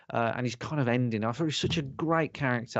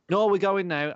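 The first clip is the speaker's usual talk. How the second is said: mock Dany; 7 semitones higher, 4 dB louder than usual. Dany voiced insisting.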